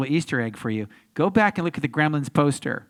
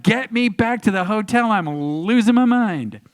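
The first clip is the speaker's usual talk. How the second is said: mock overwhelmed plea; 6 semitones higher, 4 dB louder than usual. Retells his overwhelmed reaction leaving premiere.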